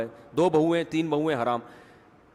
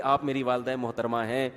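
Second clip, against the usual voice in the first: low, soft, courteous daughter-in-law; mock-polite; 5 semitones lower, 6 dB quieter than usual. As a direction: imitate respectful agreement, lower and restrained. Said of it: "وہ پھر تمیز سے نہیں کہے گی". (تمیز سے، دھیمے لہجے میں)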